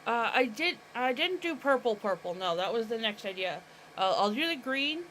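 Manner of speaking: talking around a paintbrush; mouth full. Real, not acted. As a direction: brush held between the teeth. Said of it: "I got my brush in my mouth".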